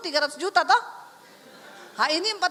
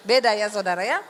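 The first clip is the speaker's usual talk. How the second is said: laughing; 6 semitones lower, 4 dB louder than usual. Real, not acted. Preacher joking about her husband, laughing. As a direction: laugh while you say it.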